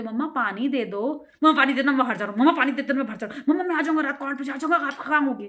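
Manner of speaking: imitating a kid rattling on to mom; a hint of a chattering kid; mock childish chatter. Shown as a demonstration. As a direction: show how a child babbles. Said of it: "ऐसे नहीं बोलना है".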